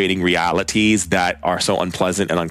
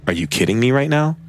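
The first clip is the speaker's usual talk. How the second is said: amazed disbelief; 6 semitones higher than usual. Retold or imitated. Friend stunned the bookstore owner appeared, amazed disbelief. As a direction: imitate a friend who can't believe what just happened. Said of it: "He s-, was amazed".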